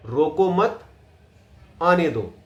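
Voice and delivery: "रोको मत" held up, long pause, then "आने दो"; pause after मत. Shown as a demonstration. Acting coach repeats the demo line, pause after मत. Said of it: "अब मैंने यहां पोज लिया".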